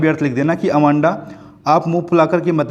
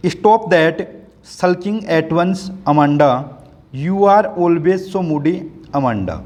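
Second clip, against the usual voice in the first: slow poem reading; 3 semitones higher, much slower than usual. Acted. Teacher reading the poem's nagging mother lines aloud, slow recital. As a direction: read the mother's scolding lines slowly aloud to the class.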